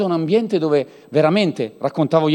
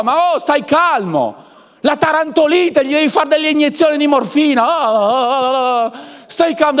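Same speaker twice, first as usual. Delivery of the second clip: mock soothing; 9 semitones higher, 4 dB louder than usual. Preacher calming an overeager believer, hammed-up high soothing. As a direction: coo at them like a frantic patient.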